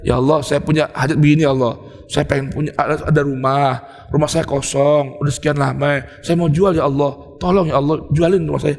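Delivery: understated close prayer, low and conversational; intimate prayer. Retold or imitated. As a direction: pray as if talking face to face. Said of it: "Begitu ngomongnya".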